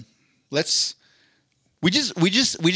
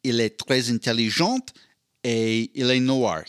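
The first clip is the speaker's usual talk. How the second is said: il est très intelligent said in French; mock French accent. Shown as a demonstration. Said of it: "my review en français".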